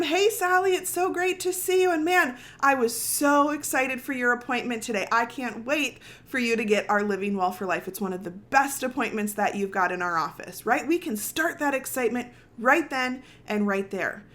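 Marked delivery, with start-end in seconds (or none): 0.0-10.6 bright, eager welcome at the front desk; excited greeting. Shown as a demonstration. Front desk greeting a patient, excited. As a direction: greet her like you can't wait to see her. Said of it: "So we greet them".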